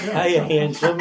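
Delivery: slow, high, loud teasing purr; flirty come-on. Retold or imitated. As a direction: ham up a seductress calling out. Mimicking a seductive woman.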